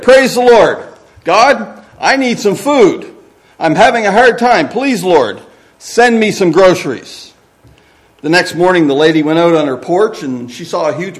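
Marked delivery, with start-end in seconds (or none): 0.0-7.3 high, loud plea to heaven; shouted prayer. Acted. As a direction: cry out to God, easing off toward the end. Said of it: "she shouted".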